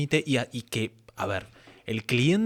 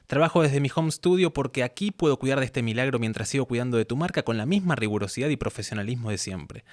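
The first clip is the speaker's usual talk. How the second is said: promo voice-over read; 2 semitones higher than usual. Acted. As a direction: sell it warmly to the client, like a demo reel. Reads her voice-over promo.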